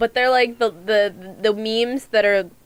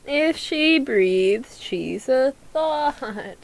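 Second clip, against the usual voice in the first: slow meme voice; much slower than usual. Retold or imitated. Quoting a meme.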